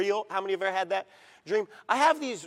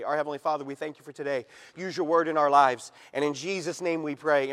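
prayer; 5 semitones lower than usual. Acted. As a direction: pray gently for the whole room. Preacher leads a short prayer.

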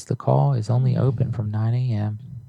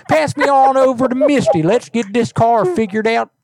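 hammed-up redneck twang, higher and louder; redneck accent; 13 semitones higher, 4 dB louder than usual. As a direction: ham up a hillbilly accent. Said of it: "I love your accent".

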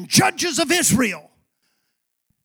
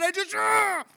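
imitated frustrated cry; 7 semitones higher, 5 dB quieter than usual. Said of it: "Dad, I was so mad".

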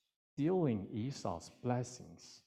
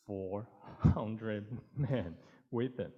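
laughing; much slower than usual. Acted. Messengers warn of Esau's army.

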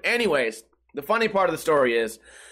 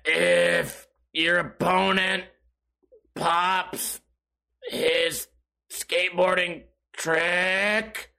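very slow, dragged-out rule reading; slow motion; 2 semitones lower, much slower than usual. Retold or imitated. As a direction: imitate Steve-O reading the rules at a crawl. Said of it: "This fool was in slow motion".

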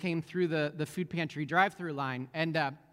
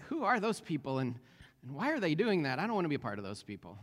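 negative skeptic; 2 semitones lower than usual. Retold or imitated. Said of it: "on the negative side".

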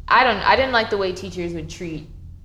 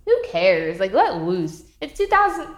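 low, mocking kid voice; teasing mom; 3 semitones lower than usual. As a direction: brush her off with a smirk. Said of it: "looking at her like".

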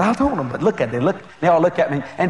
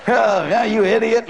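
mocking devil; 5 semitones higher, slower than usual. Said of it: "devil mocking again".

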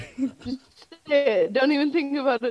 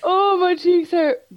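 laughing; 4 semitones higher, 4 dB louder, slower than usual. Real, not acted. After long laughing fit.

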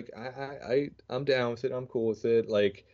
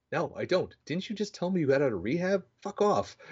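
mock brush-off; 8 semitones higher than usual. Retold brush-off to cousin.

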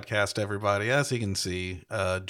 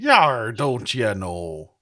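Minnesota pirate; 3 dB louder, much slower than usual. Pretend. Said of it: "Minnesota pirate".

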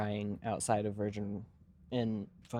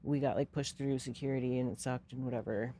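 mild mock-tearful whine, pitched up at first; half-hearted imitation of someone crying; retold crying; 4 semitones higher than usual. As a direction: imitate an upset friend complaining, only lightly tearful.

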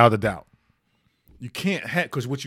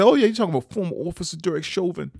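put-on quick, higher, playful New York accent; teasing New York accent; 5 semitones higher, faster than usual. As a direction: tease your wife with a mock New York accent. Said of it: "I always kid my wife about that".

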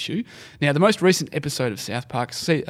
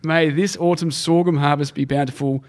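north korean newsreader. Retold or imitated. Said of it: "went like this".

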